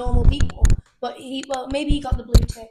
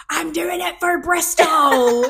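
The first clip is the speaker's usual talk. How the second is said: slow, higher, louder put-on Bristol accent; mock Bristol accent; 5 semitones higher, 7 dB louder, much slower than usual. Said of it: "she goes".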